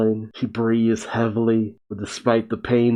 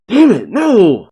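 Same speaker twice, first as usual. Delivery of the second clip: shocked outcry; 9 semitones higher, 7 dB louder than usual. Acted. Shiki caught off guard, outburst.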